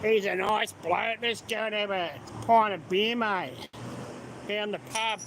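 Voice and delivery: demonstrated Aussie bloke talk; Australian slang. Shown as a demonstration. Proving he can speak Australian slang, casual Aussie manner. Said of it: "I know how to speak it".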